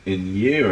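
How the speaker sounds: "here" said like "yeer"; slurred "here". Shown as a demonstration. Director showing how the line sounded, "here" as "yeer". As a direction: blur "in here" with a y glide. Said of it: "it sounded like".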